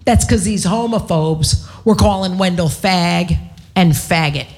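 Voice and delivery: hammed-up righteous proclamation with weighty pauses; mock self-righteous. Comic retelling of scolding the audience from the stage, self-righteous. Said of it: "I'm all self-righteous".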